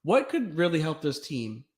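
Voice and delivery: starts hushed, bursts into a high excited yelp; a sly plan that boils over into hype; hammed-up excited Kyrie; mock Kyrie scheming. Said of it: "was just like".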